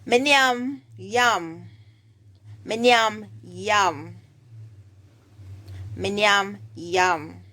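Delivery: Jamaican Patois demonstration. Shown as a demonstration. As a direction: say it as a Patois teacher models it. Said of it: "The person that say".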